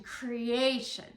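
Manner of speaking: creation with weight on the middle syllable, falling; cre-A-tion with a falling close; inflected word. Shown as a demonstration. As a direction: lean on creAtion, then let it drop. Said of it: "you could hear that inflection".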